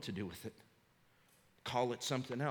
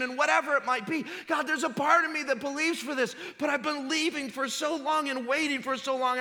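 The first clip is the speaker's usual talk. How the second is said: much higher and louder pleading prayer; impassioned prayer; 10 dB louder than usual. Retold or imitated. Preacher crying out a doubting prayer to God, impassioned. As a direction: cry it out to God at full force. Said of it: "God is big enough to deal with our confessed".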